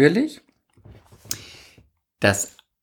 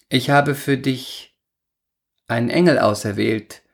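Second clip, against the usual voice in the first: ironic recital. Acted. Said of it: "Ich spüre hier zu viel Ironie".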